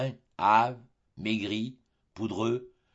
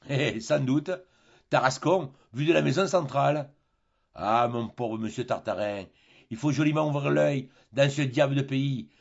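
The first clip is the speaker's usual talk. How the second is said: sententious captain; 2 semitones higher than usual. Acted. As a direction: lay down the lesson like a know-all sailor. Barbassou jokes.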